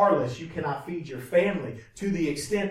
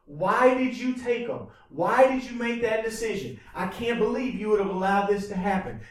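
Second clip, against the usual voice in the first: higher, louder, pleading and accusing; grieving protest to God; 4 semitones higher, 4 dB louder than usual. Retold or imitated. A grieving person railing loudly at God over a death. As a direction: shout up at God, demanding them back. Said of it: "are gonna go".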